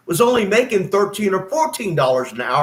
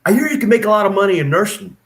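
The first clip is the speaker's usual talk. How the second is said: enthusiastic; 3 semitones higher, 3 dB louder, faster than usual. Retold or imitated. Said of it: "I'm like".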